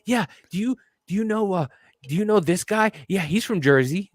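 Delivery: naive local. Retold or imitated. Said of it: "everybody out here is like".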